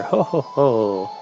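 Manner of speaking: slow, spoken mock "ho ho ho"; villain's laugh. Witch schemes to keep her working for Ganondorf, slow mock laugh. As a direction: draw out a read-aloud villain laugh.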